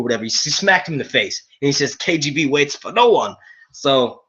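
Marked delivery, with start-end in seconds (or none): 2.0-3.3 lightly put-on German accent. Dwight after smacking Michael, light German accent. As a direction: deliver the punchline with a hint of German. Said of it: "I'm doing a German accent".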